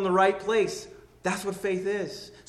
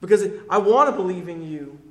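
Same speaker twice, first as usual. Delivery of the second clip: crying out in humility; 6 dB louder than usual. Retold or imitated. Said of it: "He's crying out in, in humility".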